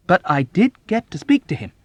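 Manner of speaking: high, loud, plaintive insistence; plaintive self-justification. A narrator's reading. Chaplain arguing his visit achieved something, plaintive. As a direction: defend yourself in a plaintive rise. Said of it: "plaintive tone of self-justification".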